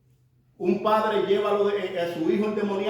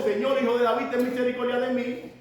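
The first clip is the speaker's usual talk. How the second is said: crying out; 5 semitones higher than usual. Retold or imitated. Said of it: "que estaba dando voces".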